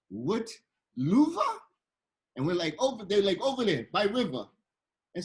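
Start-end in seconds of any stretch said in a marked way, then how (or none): 0.1-1.4 baffled question in a mock French accent; bad Parisian accent. Puzzled locals asked for the Louvre, bad Parisian accent. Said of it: "that's a horrible, uh, Parisian accent". 2.8-4.4 mock French accent, giving directions; bad Parisian accent. Locals pointing tourists to the river, bad Parisian accent. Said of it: "that's a horrible, uh, Parisian accent".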